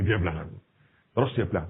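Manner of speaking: normal talking voice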